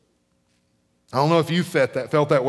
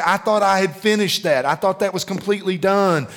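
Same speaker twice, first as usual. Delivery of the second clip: mild frustrated complaint; 5 semitones higher than usual. Retold or imitated. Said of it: "and you say".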